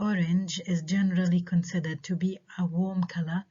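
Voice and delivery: slow statement falling on "color"; falling intonation. Shown as a demonstration. Teacher reads example sentence A as a statement, falling intonation on "color". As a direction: read it slowly, letting "color" fall. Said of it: "إذا falling intonation".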